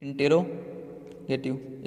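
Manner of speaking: drawn out very slowly, "इंटेरोगेटिव" syllable by syllable; teacher slowly modelling "इंटेरोगेटिव" in four syllables; slow careful pronunciation. Shown as a demonstration. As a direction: stretch every syllable of "इंटेरोगेटिव" for the class. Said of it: "इसको अलग अलग बोलते हैं".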